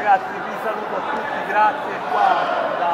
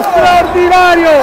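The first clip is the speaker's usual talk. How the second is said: shouted exclamation; 8 semitones higher, 12 dB louder, slower than usual. Real, not acted. Repeated exclamation.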